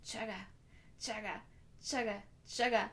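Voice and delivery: soft rhythmic chug; train chugging. Shown as a demonstration. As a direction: imitate train wheels getting going. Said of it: "like a train".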